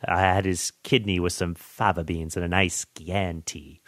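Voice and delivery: quiet, lightly imitated cannibal psychiatrist; a hint of calm, cultured menace; Hannibal Lecter. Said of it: "Hannibal Lecter".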